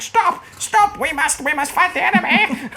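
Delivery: high-pitched frantic shaman yelling at his troops; cartoonish goblin cry to rally the troops. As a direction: squeal it like a panicking little shaman. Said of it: "being like".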